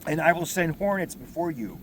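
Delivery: proclaiming scripture to the congregation; scripture reading. Acted. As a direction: read the passage out like from the pulpit. Reads scripture aloud.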